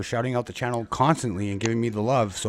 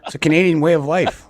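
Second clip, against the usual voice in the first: laughing; 6 semitones higher, 7 dB louder than usual. Real, not acted. Laughing after joke.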